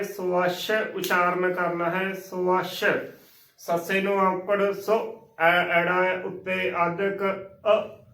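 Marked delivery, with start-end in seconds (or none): 0.0-2.8 "ਸਵੱਛ" filled out as so-WASH; full-bodied pronunciation. Shown as a demonstration. Teacher telling learners to say it full, emphatic model. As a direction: give "ਸਵੱਛ" a rounded so and weighty wa-sh. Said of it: "ਇਸ ਨੂੰ ਭਰ ਕੇ ਬੋਲਣਾ ਹੈ".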